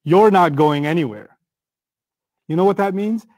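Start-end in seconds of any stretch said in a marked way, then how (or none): 0.0-1.4 certain, falling to a firm close; matter-of-fact command. Shown as a demonstration. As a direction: state the ban as settled fact. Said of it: "it's a matter of fact".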